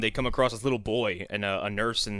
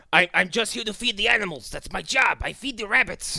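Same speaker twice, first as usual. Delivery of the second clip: higher, timid servant voice; meek servant voice; 8 semitones higher, 3 dB louder than usual. Retold or imitated. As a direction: play the harmless little servant. Servant voiced in film recap.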